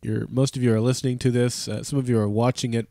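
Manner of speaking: stuffy nose from a head cold; nasal voice. Real, not acted. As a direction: talk through a blocked nose. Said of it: "listening to my nasally voice".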